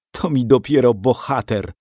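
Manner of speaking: scornful sneer at the captive; mock the coward to his face; mother scorning the captured outlaw; contemptuous. A narrator's reading. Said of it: "rzekła z pogardą".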